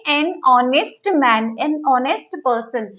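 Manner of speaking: "honest" said as "ऑनेस्ट", silent h, very slow; slow example phrases. Shown as a demonstration. Teacher to students, dictating the example slowly with silent h. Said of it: "तो यहाँ पर हम क्या लिखेंगे?".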